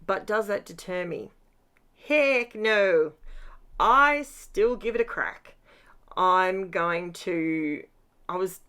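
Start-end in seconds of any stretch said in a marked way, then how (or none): 2.1-5.5 louder, defiant declaration. Real, not acted. Crafter tells viewers she won't be deterred, defiantly louder. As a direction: punch it out with stubborn cheer. Defiant reply to own question.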